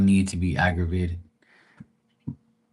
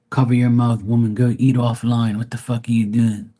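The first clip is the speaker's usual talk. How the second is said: louder, higher mock telling-off; scolding troll; 3 semitones higher, 4 dB louder than usual. Troll telling off a woman eating live, mock scolding. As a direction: imitate a troll scolding someone online.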